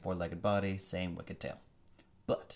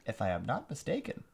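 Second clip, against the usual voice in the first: villain voice. Acted. Alien commander gloating over captured prince, high sneering villain voice. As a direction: savor every word like a gloating tyrant. Visser voice.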